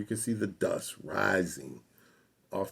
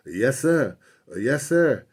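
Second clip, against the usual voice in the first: higher, louder, eager-to-please yessir voice; deferential grandfather; 6 semitones higher, 7 dB louder than usual. Retold or imitated. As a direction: play up the servility to a cop. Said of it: "never, ever talked to anyone in that way".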